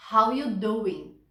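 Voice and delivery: a hint of Joey flirting, How you doing? linked; Joey's catchphrase. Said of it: "ele fala usando o connected speech".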